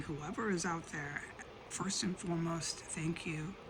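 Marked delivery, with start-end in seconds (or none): 2.8-3.5 soft whispered thanks. Real, not acted.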